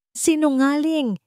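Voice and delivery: high, slow furious yell of liar; angry shout. A narrator's reading. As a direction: hurl the accusation back, drawn out. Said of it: "sigaw pabalik ni Lakan".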